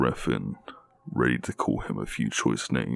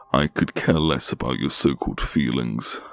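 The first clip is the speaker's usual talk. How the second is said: snapping; 3 semitones higher, 4 dB louder than usual. Acted. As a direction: snap back at him. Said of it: "I snap at him".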